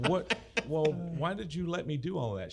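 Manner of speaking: high, loud mock astonishment; startled disbelief. To Doris after she answers him, loud and amazed. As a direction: jump up in pitch, caught out. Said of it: "And I said".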